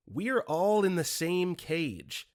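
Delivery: slow eerie crone voice; lightly voiced creepy old woman. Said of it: "in a creepy old woman voice".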